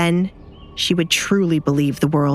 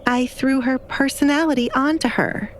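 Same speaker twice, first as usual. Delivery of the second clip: blunt reply; 7 semitones higher than usual. A narrator's reading. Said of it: "Alessandra bluntly replied".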